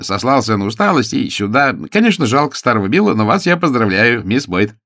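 a touch of voluble excitement; chatty lawyer. Acted. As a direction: spill the news as a talkative lawyer.

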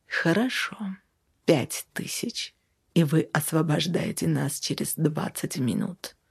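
hushed, oily sweet restraint; low and smooth, forced honeyed politeness; unctuous. A narrator's reading. Savelyev bribes the dispatcher through clenched teeth, unctuously. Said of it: "елейным тоном произнёс".

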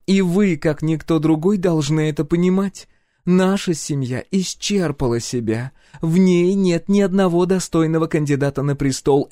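loud, high forceful royal voice; impassioned empress. A narrator's reading. Empress forcefully defends her family's decision. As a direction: lecture him with mounting urgency.

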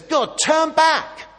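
high, slow, loud pleading cry; loud plea. Retold or imitated. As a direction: beg God to turn back with full force. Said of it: "He says".

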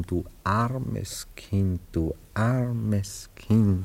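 tender pity. Acted. Pitying thought spoken aloud.

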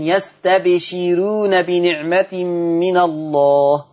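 يستبشرون slow with a light thin r; slow Quranic recitation. Shown as a demonstration. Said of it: "هترقق الراء".

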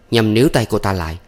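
usual speaking voice

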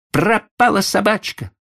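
high, loud, upset outburst; irritated. Acted. Boy telling grandfather the dog is lost, irritated. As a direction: blurt it out in vexation. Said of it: "раздражённым голосом грубо ответил мальчик".

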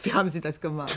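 asking through laughter; laughing. Acted. Journalist laughing as she asks how he did it. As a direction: laugh the question out in amazement. Amazed by a trick.

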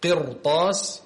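قرطاس with a thick, broad ra; heavy ra. Shown as a demonstration. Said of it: "هنا أيضًا تفخم".

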